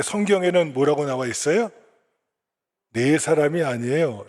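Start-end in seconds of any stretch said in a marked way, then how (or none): none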